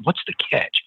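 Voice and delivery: breathy whispered "What's the catch?" with no voice; whispered question. Retold or imitated. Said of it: "That's the, the word I'll get all the time".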